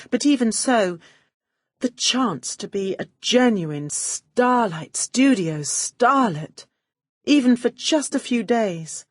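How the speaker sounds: high, gushing starstruck praise; fawning gush. Acted. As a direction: swoon over the studio boss. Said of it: "I was laying it on thick".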